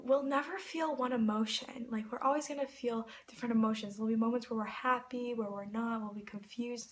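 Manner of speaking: gentle advice. Retold or imitated. Singer's tender advice retold.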